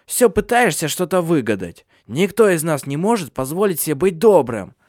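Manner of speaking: high, forceful crone lecturing; scornful old woman. A narrator's reading. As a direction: scold him as the family's old matriarch. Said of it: "фыркнула Ханна".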